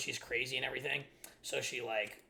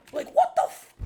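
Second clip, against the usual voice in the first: exasperated yell; 15 dB louder than usual. Real, not acted. Outburst after quote.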